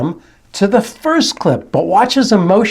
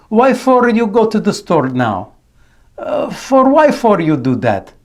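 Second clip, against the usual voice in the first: mock Italian accent; 3 semitones higher than usual. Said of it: "maybe, or".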